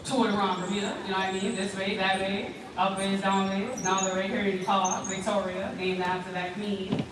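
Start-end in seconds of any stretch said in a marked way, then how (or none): none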